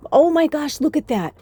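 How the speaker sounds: high, loud delighted gasp; surprised. Real, not acted. Tarot reader surprised by the cards fanning out. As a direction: caught off guard by the cards.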